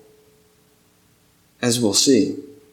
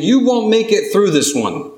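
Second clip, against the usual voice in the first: taunting voices; 4 semitones higher than usual. Acted. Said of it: "voices that taunted the disciples".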